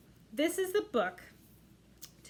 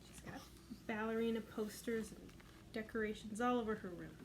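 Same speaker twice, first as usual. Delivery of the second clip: whispered aside; 9 dB quieter than usual. Real, not acted.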